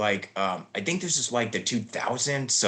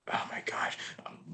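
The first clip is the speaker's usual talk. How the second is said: whisper; 12 dB quieter than usual. Real, not acted. Catches herself looking up credits.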